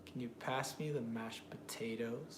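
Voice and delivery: slow question, beats on "pass", "mashed", "potatoes"; drawn-out rise on "potatoes"; rhythmic stress practice. Shown as a demonstration. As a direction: carefully tap out the stressed words.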